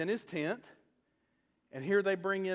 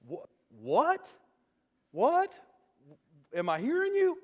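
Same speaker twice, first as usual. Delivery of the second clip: incredulous; 3 semitones higher than usual. Retold or imitated. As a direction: retell a stunned double-take, pitch shooting up. David can't believe the reward.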